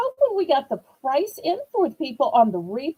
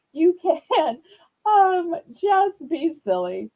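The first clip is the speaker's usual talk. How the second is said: laughing; 4 semitones higher than usual. Real, not acted. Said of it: "cut up a little".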